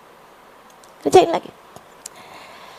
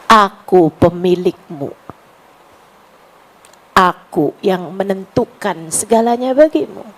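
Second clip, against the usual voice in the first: lower divine voice; 8 semitones lower than usual. Retold or imitated. Preacher voicing God addressing the sinner, low and solemn. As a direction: speak lower as God reminding his servant. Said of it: "Allah kayak lagi mau ngasih tahu".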